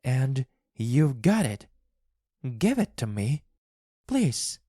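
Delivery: high-pitched, insistent begging; pleading wife. A narrator's reading. Wife begs husband for paw.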